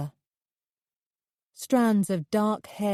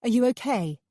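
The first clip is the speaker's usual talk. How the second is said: bursting out; 5 semitones higher than usual. A narrator's reading. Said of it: "I burst out".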